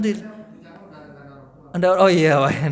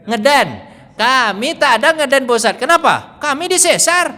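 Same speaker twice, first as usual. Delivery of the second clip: mimicking the mothers; 5 semitones higher, 4 dB louder than usual. Mothers' reply imitated.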